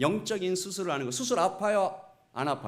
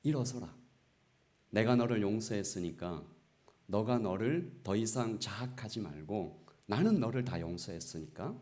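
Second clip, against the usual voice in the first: lower, calm voice of God; 8 semitones lower than usual. Retold or imitated. A lightly voiced God telling the weeping pastor to rise. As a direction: speak as God lifting a sinner up. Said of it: "하나님께서 얘기하시는 거죠".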